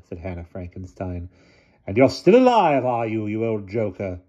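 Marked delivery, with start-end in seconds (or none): 1.8-4.2 put-on old lady voice. A narrator's reading. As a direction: speak like a commanding elderly aunt.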